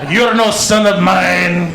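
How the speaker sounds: put-on slow, drawn-out accented father; mock-solemn rejection, every word stretched; disowning dad. Dad to his fainted son, slow mock disgust.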